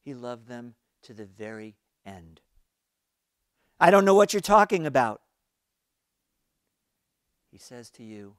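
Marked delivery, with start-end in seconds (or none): 3.8-5.2 higher, louder, fast stammering denial; flustered stammer. A narrator's reading. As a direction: stumble over the words to avoid him.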